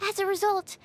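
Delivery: nervous, with a helpless sigh before the end; anxious. Acted. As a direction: worry aloud over a mishap you caused. Anxious confession of an accident.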